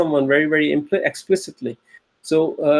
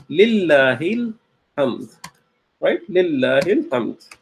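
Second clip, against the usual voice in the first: slow recitation; slower than usual. Shown as a demonstration. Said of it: "we say".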